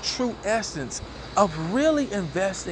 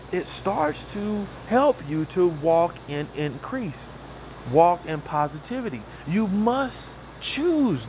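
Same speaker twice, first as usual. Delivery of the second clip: slow, emphatic motivational preaching. Acted. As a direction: drive the lesson home slowly.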